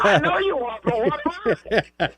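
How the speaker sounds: high singsong schoolyard taunt; childish taunt. Retold or imitated. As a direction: chant it like a kid teasing. Repeats the taunt, higher.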